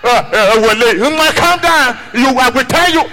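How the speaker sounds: very high squeaky pleading; high calm down. Retold or imitated. Yoruba man begging the angry guy, squeaky high. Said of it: "in the shout for him".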